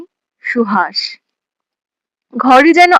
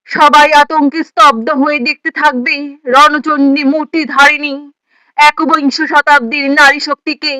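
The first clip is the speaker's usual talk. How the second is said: impassioned declamation; 3 semitones higher than usual. Acted. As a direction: proclaim it like a rousing prophecy, pitch held up. Poem's climax, prophecy of women rising. (উদাত্ত, উদ্দীপ্ত আবৃত্তি)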